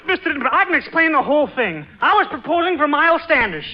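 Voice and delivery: tangled, rushing to explain; nervous escalating muddle; flustered babbling. Acted.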